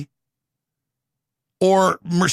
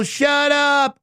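sharp higher shout back; shouted shut up; 6 semitones higher than usual. Real, not acted. Ranting host yells at his critics. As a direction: cut them off with a yell.

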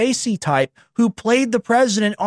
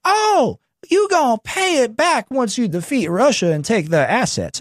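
mock quote; 4 semitones higher than usual. Mocking EU loan condition.

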